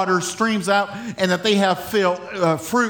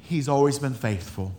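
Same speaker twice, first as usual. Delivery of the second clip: lower, softer calm assurance; calm trust; 5 semitones lower, 4 dB quieter than usual. Retold or imitated. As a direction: say it with quiet faith. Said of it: "And we say".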